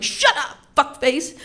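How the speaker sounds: high, loud bratty yell; yelling back. Retold or imitated. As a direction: snap back at him like an angry kid. Kid yelling back at brother.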